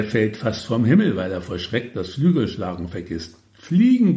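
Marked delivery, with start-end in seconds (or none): 3.5-4.2 high-pitched, loud yell; capo's shouted order, pitched way up; bellowed command. A narrator's reading. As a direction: yell it at a subordinate in alarm. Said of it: "brüllt ihn der Capo an".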